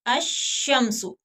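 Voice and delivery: अशम्सु very slowly, doubled sh held; drawn-out ash-shamsu for the class; slow careful demo. Shown as a demonstration. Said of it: "अल शम्सु नहीं पढ़ेंगे". (अशम्सु बहुत धीरे, तशदीद के साथ)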